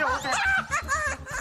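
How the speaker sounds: very high, drawn-out wail; terrified agreement. Acted. Man forced by ghost to admit ghosts exist, high panicked wail.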